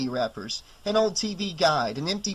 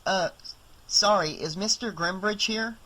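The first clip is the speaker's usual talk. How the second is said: put-on higher kid's voice, polite; young boy; 5 semitones higher than usual. Boy asks Ellie for the owner, higher kid's voice. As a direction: play a small boy asking politely.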